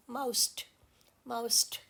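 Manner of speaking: careful quiet माउस्ट; dictionary pronunciation. Shown as a demonstration. Teacher modelling the dictionary माउस्ट. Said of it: "dictionary में तो इस तरह से होगी".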